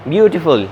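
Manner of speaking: BEAU-tiful, the first syllable "beautiful" punched; "beautiful" stressed at the start. Shown as a demonstration. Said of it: "आपने ब्यूटीफुल कहना है".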